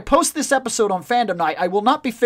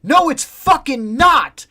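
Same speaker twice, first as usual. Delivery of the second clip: retold angry denial; 5 semitones higher, 5 dB louder, slower than usual. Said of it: "And I was like".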